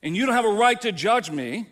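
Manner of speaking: loud, indignant pushback; defiant refusal. Retold or imitated. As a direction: snap back at God. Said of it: "and we go".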